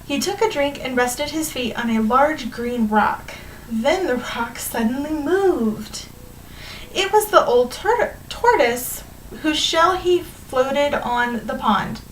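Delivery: animated storybook reading to a class; measured read-aloud with stretched key words; story read-aloud. A narrator's reading. Teacher reading a fable to students, lively storytelling.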